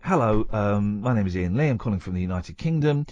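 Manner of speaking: low-pitched, very posh English phone voice; very posh, formal phone message. Retold or imitated. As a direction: put on a very posh British voice. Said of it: "I put on a very posh voice".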